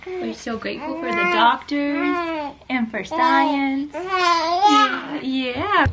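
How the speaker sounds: thanking the doctors while choking up; tearful. Real, not acted. Mother holding her son on his first birthday, voice breaking with tears.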